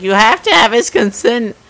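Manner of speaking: high-pitched imitation of a protesting wife; mock screaming wife. Wife objecting to her husband's arrest, mock scream. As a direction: raise it into a mock outraged cry. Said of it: "the wife's screaming about".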